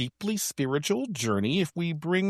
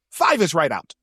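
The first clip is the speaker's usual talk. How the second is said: lightly pompous rule-giver; totally different voice. Retold or imitated. Contact ending the counting rules, mildly pompous. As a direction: finish the decree with a firm dismissal. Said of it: "in a totally different voice".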